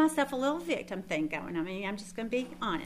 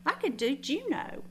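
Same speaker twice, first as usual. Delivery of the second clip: high, loud flourish on "Saigon"; excited; 6 semitones higher, 8 dB louder, slower than usual. Real, not acted. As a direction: build up to a big exclaim. Exaggerating how far she'd go.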